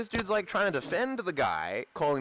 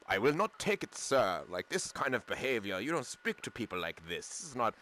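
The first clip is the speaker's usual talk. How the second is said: measured, lower-toned imitation of formal speech; refined, proper speaker; 3 semitones lower, 4 dB quieter than usual. Retelling the African guy's educated objection, lightly put-on refined voice. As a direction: lightly mimic a polite, well-spoken man, softer as it goes. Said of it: "he's kind of the white boy, actually".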